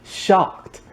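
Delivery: shocked. Shown as a demonstration. Telling viewers about her real accent, amazed. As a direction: repeat shocked like you can't believe it. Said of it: "and I'm shocked".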